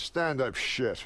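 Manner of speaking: slow, deadpan dismissal; deadpan reversal. Retold or imitated. Old comic takes back his advice after a pause, deadpan. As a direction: drag it out as a blunt retold punchline. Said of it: "He's looking me right in the eyes".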